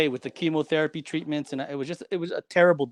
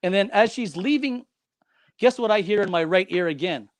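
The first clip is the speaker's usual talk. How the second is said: usual speaking voice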